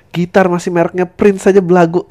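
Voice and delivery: shouted through laughter; mock his cheap guitar; laughing taunt. Real, not acted. Comedian laughing while roasting the bandmate.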